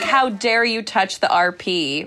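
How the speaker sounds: slow, hammed-up indignation; drawn-out pretend offense; mock outrage. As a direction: imitate an affronted British purist. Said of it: "And they're like".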